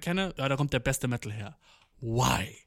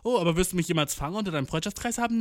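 lightly voiced, higher flitting butterfly; 7 semitones higher than usual. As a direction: play a social butterfly flitting between groups. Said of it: "Sozialer fucking Schmetterling".

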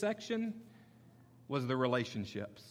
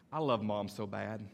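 put-on little boy voice; 6 semitones lower than usual. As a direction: imitate a toddler's stubborn reply. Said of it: "his response was every time".

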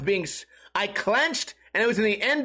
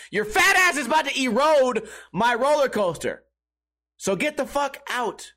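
mock angry operator; 5 semitones higher than usual. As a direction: throw him out, hammed-up. Operator kicking the rider out.

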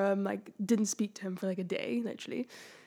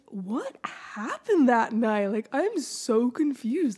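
imitating dad; much slower than usual. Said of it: "he was like".

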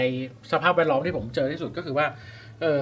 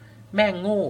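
mock insult; 4 semitones higher, much slower than usual. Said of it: "แล้วเราก็ไปด่าว่าแบบ".

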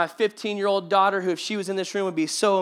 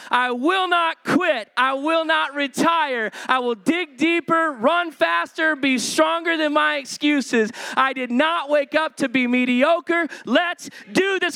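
slow, loud, declaring each line; loud and proud; 4 semitones higher, slower than usual. Real, not acted. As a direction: proclaim it with fighting resolve. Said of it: "Read this loud and proud".

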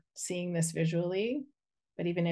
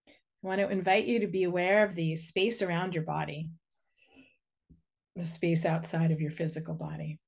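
unhurried guiding voice with long pauses; guided meditation. Real, not acted. Inviting listeners to send a cord into the earth, guided meditation. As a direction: lead them gently through grounding, phrase by phrase.

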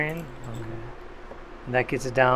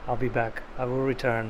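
deep firm voice; 8 dB quieter than usual. Acted. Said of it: "this is my serious voice".

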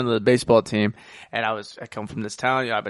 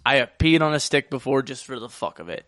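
ordinary talk, nothing marked

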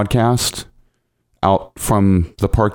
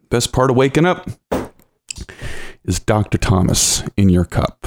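just after a sip of coffee; talking after a drink; while sipping a drink. Real, not acted. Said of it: "Let me take a sip of coffee".

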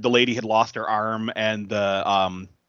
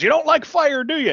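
much higher and louder, hammed-up menace; mock villain taunt; 6 dB louder than usual. Retelling the villain's threat to his co-host, hammed-up taunting voice. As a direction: sneer the question like a cartoon thug.

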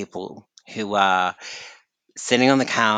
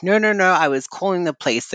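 flustered manager; 8 semitones higher, 3 dB louder, faster than usual. Retold or imitated. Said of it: "And she's like".

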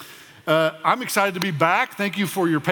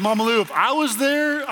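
high, loud mock protest; incredulous protest; 10 semitones higher, 5 dB louder than usual. Pastor telling Mama Lou he'd cope worse, high incredulous protest. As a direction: pitch it way up, louder, in disbelief.

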